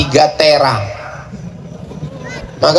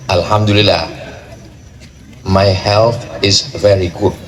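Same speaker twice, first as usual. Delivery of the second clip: low answering voice; 8 semitones lower than usual. Acted. Answering the modelled question.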